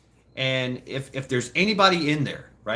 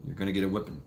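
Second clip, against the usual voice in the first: low, soft, unhurried threat; calm menace, pitch and volume dropped; very calm dad; 8 semitones lower, 10 dB quieter, much faster than usual. Retold or imitated. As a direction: imitate a stepdad's quiet, matter-of-fact warning. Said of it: "it was very calm".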